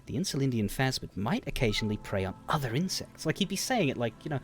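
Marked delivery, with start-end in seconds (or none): 0.0-3.3 understated excitement, softly spoken; lightly eager, lifting at the end; a little peppy. Shown as a demonstration. Showing how he'd describe his passion, a little excited. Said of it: "gonna be a little excited".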